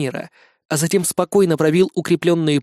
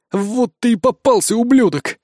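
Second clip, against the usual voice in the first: put-on higher, snarling young thug; menacing thug; 6 semitones higher than usual. A narrator's reading. Young thug threatens the captain with a cleaver. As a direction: threaten him with the knife.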